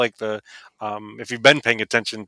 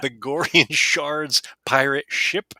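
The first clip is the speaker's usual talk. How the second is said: slow, careful run through a tricky name; said slowly; 2 semitones higher, slower than usual. Shown as a demonstration. Host showing how to say a hard name, slowly. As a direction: space out each word of the tongue-twisting name. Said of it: "it's important to say it slowly".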